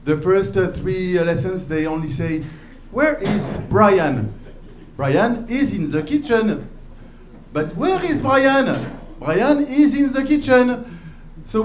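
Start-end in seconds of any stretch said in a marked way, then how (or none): 2.9-6.7 put-on slow, careful English in a French accent; lightly mocked French teacher's English accent; bad French-teacher English. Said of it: "their accent is really, really bad". 7.5-10.8 put-on higher, slow, sing-out French-accented English; exaggerated French teacher's English, pitched up; bad French-teacher English. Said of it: "their accent is really, really bad".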